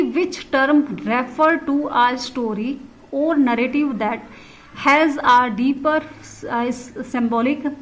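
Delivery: very slow, word-by-word question reading. Acted. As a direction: read the question out for students, slowly. Reads the exam question aloud. (प्रश्न को बहुत धीरे-धीरे पढ़कर सुनाना)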